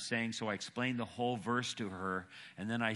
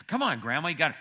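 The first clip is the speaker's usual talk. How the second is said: louder, higher granddaughter's coaxing; persistent pleading; 7 semitones higher, 9 dB louder, much faster than usual. Retold or imitated. Granddaughter pestering Grandma about church, persistent. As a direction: keep pushing, voice lifted. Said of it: "Granddaughter was really persistent".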